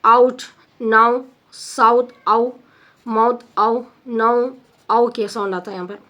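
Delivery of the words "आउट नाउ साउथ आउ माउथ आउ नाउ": आउट, नाउ, साउथ, आउ, माउथ, आउ, नाउ said singly; teacher sounding out आउट, नाउ, साउथ, आउ, माउथ, आउ, नाउ; diphthong examples. Shown as a demonstration. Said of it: "This is आउ sound".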